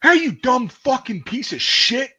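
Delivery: high, loud barking drill sergeant; drill sergeant yelling. Retold or imitated. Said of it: "And the drill sergeant goes".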